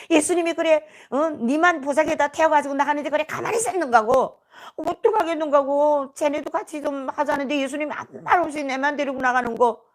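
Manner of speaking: heated retold telling-off; indignant scolding. Cellmates berating the girl who left alone, indignant scolding. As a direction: scold her with mild outrage. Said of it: "막 쌍욕을 해댑니다".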